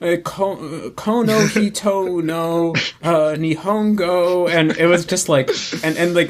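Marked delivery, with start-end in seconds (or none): 0.0-4.5 stumbling, halting, very slow, fumbling delivery. Retelling how a fellow student read Japanese aloud in class, imitating fumbling reading. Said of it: "would be constantly fumbling like".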